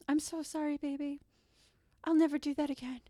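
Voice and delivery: high, put-on pleading voice; mock a guy begging forgiveness; apologetic boyfriend. Guy apologizes to his girlfriend, high pleading. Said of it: "And the guy's like".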